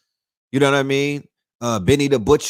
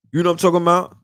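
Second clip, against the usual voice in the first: loud emphatic aside; 5 semitones higher, 7 dB louder, much faster than usual. Real, not acted.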